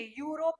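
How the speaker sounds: "यूरोप" starting "yoo", as "yoo-rop"; "यूरोप" opened on an oo vowel; wrong pronunciation. Shown as a demonstration. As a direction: say "यूरोप" with a long oo first. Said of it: "यूरोप नहीं है".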